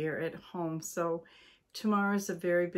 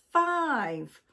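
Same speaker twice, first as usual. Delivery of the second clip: shocked question; 7 semitones higher, 6 dB louder than usual. Acted. Husband shocked by count.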